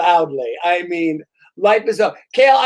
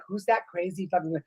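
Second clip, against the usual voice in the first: gossiping whisper; 6 dB quieter than usual. Retold or imitated. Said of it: "everyone's like".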